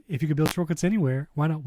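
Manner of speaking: popping mic on the words; crackly usb mic. Real, not acted. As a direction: talk through a mic that pops. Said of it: "Why is my mic popping?".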